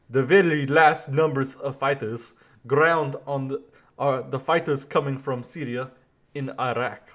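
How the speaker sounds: put-on a clumsy try at a French accent; terrible French accent. Quoting the French president in a poor French accent. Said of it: "I have a terrible actual French accent".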